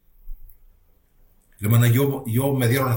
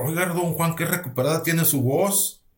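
higher-pitched, mildly astonished exclamation; surprised doctor; 5 semitones higher than usual. Retold or imitated. Doctor amazed at his patient's recovered voice, mildly surprised. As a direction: imitate a doctor lightly taken aback. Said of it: "se sorprendió él".

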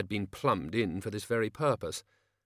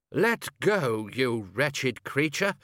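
indignant outburst; 3 semitones higher, much slower than usual. A narrator's reading. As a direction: draw out the outraged command. Chair grabs at sock-stealing creature.

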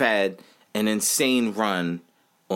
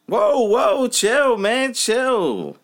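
calming someone down; 12 semitones higher, 5 dB louder, much slower than usual. Real, not acted. Calming down co-host Wally.

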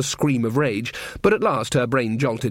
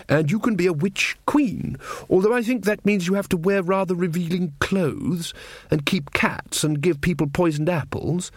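Verence's voice; 5 semitones higher than usual. Acted. King Verence scolding the trumpeter, higher, fussy. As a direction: play the earnest little king going on about pigs.

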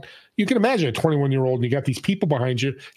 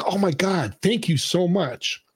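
relieved gratitude; 5 semitones higher, slower than usual. Retold or imitated. Manager relieved at praise of waitress.

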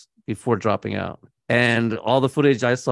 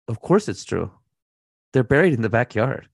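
casual boast. Retold or imitated. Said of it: "as if it was no big deal at all".

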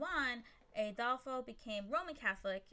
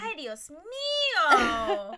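laughing; 6 semitones higher, 13 dB louder, much slower than usual. Real, not acted. Laughing exasperation at cohost.

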